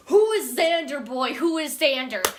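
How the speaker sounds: hammed-up indignant question; mock incredulous demand. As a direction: demand it in exaggerated bafflement. Acted baffled demand to know.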